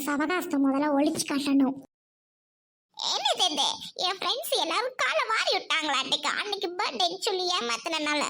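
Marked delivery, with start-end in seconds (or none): 4.1-8.2 teary voice, breaking into sobs; bride-to-be cries that her friends abandoned her; tearful crying. Acted. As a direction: cry out her hurt at being left alone. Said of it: "ஏய், எதுக்குடி அழுகுற?".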